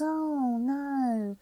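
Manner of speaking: lightly voiced Cockney girl spotting a laddered stocking; Cockney servicewoman. Retelling Joyce Grenfell's sketch, a lightly done Cockney dismay. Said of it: "she's talking like this".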